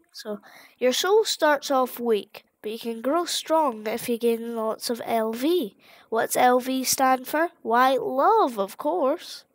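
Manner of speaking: lightly voiced friendly flower, chirpy; sweet-talking the player, a hint of sugary; cheery flower. Flower luring the player, lightly sugary.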